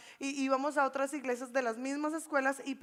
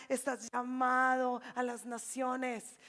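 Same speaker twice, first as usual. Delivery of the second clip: prophetic voice; slower than usual. Retold or imitated. Voices the prophecy being given.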